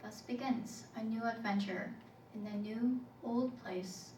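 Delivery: measured poetry recital; spoken-word poem. Acted. Poet called back to an old place, measured recital. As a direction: recite in short, deliberate phrases.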